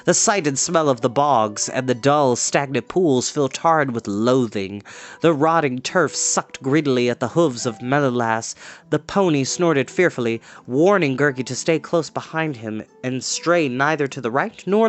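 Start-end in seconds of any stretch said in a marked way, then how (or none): none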